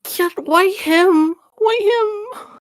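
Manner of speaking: very high, squeaky lament; mock-anguished, high-pitched whine; dismayed pleading. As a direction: plead with a friend in a tiny high voice. Pleads with friend over her partner.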